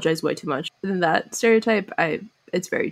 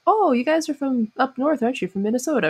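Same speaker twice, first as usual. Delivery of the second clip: southern stranger; 6 semitones higher than usual. Retold or imitated. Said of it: "just came up and like".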